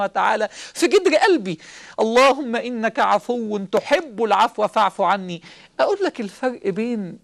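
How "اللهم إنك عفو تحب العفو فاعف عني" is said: slow, drawn-out supplication; slow prayer. Acted. Preacher leading the congregation in prayer, slow and pleading. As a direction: plead each word slowly to God.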